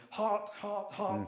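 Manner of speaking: high, sharp call of hot, hot, hot; a high warning shout, imitated; imitating a chef's yell. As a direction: call out a kitchen warning at the pass. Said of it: "one of them kept yelling".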